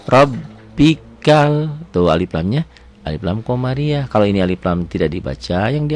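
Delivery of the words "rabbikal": very slow Rabbikal with a thick, full r; heavy ro. Shown as a demonstration. Teacher shows the heavy ro, slow and loud. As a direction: make the r in Rabbikal heavy and round. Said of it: "ro-nya tebel".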